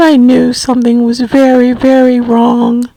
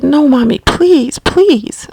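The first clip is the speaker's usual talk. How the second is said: pleading; 3 semitones higher, slower than usual. Retold or imitated. Retold pleading with mother.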